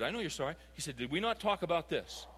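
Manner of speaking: soft and steady, no anger at all; gently firm, like he's explaining; calm, quiet dad. Retold or imitated. Father calmly reminding his son of the rule, quiet. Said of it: "he was very calm".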